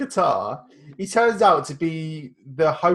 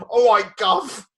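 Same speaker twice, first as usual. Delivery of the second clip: drawn-out, higher-pitched Cockney greeting; mock Cockney; 5 semitones higher, 4 dB louder, slower than usual. Co-host mimicking the club owner's bad British accent, mock Cockney. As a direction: put on a slow, exaggerated Cockney accent. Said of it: "Cockney. He's like".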